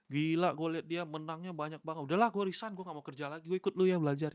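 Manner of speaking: lightly mimicked starry-eyed would-be trader; imitating eager newbie. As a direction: act out someone naively impressed, voice lifted. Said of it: "Tapi jangan orang kan suka".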